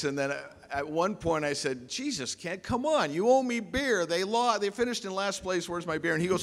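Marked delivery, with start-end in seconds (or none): 1.9-6.1 high, pleading exasperation; mock outrage at a friend who won't pay up; exasperated demand. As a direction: whine for the beer you're owed. Demanding his owed beer.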